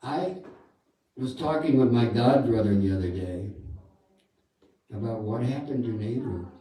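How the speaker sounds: a hint of Prabhupada recalling a conversation; Prabhupada impression. Speaker mimics Prabhupada on an early New York tape, lightly imitated. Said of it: "And he was talking like this".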